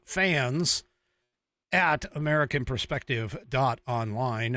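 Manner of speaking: fans said slowly as one word, each part clear; slow it down so viewers catch "fans"; slow repeat. Shown as a demonstration. Host repeats the email address slowly for viewers to note. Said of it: "F A N S at American Perspective dot online".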